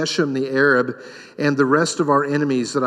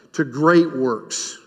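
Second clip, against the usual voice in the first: slow emphasis; 3 semitones lower, much slower than usual. Real, not acted. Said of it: "repeated for emphasis".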